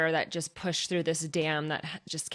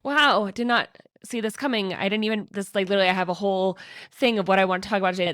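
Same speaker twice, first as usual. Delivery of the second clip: emotional; 3 semitones higher, 6 dB louder than usual. Real, not acted. Surprised by her own tears while recording, emotional. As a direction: push through the tears, caught off guard. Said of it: "I'm getting so emotional".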